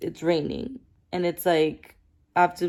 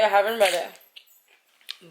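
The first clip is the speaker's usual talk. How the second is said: "I haven't read it" drawn out slowly; "I haven't read it" said slow and deliberate; slow repeat; much slower than usual. Shown as a demonstration.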